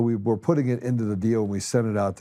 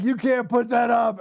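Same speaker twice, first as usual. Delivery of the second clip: high, drawn-out protest; mock alarm; 13 semitones higher than usual. Host imitating reviewers forbidding the clip, high mock alarm. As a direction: imitate a scandalized objector, pitched way up.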